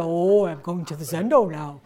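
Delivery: put-on dutiful voice, laughing; mocking with laughter. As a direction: parody the eager sitter.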